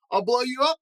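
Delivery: high and loud threatening yell. A narrator's reading. Van Itch threatening Grandpa from the wall, loud yell. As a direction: bark the threat at him. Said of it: "he yelled".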